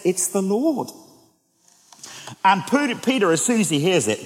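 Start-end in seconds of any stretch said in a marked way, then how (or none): 0.0-0.9 a touch of hushed wonder; awed recognition. Retold or imitated. Disciple recognising Jesus.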